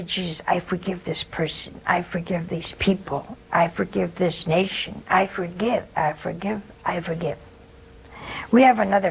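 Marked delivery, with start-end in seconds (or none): 0.0-7.4 prayer. Shown as a demonstration. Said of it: "Just say".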